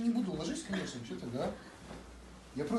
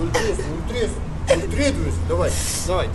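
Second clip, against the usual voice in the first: mock crying.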